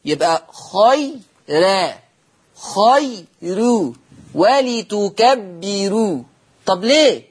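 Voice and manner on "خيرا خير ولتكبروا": خيرا with a thin light ra, drawn out slowly; slow recitation of خيرا خير ولتكبروا with softened ra; tarqiq demo. Shown as a demonstration. Teacher demonstrating Warsh's light ra to students. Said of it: "هكذا".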